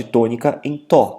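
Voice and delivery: tó dito devagar e firme; tônica. Shown as a demonstration. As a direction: marque o tó devagar. (tó destacado e lento)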